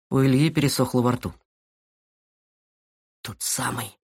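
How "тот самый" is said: barely audible whisper. Acted. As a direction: breathe the words out. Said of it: "прошептал он едва слышно". (шёпотом, едва слышно)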